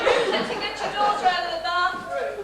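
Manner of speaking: snapping back. Acted. Wife scolding husband about the daughter, loud. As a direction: tell him off, fast.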